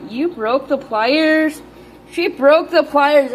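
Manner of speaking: can't believe what the pet did; amused disbelief. Real, not acted. Owner amazed her lizard broke the pliers, slow disbelief.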